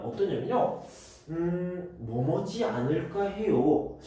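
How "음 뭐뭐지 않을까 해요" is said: softer hesitant 음, then a musing lead-in; tentative intonation. Shown as a demonstration. Teacher showing learners the tone of a guess, tentative. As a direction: muse it aloud, unsure. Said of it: "억양이라, 자, 이런 것들을 보면".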